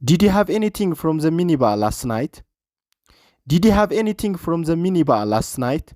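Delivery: slow, careful English with stress on room; slow repeat for learners. Shown as a demonstration. Teacher repeating a clip line slowly for students, slow and careful. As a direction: say it slowly so the class can copy.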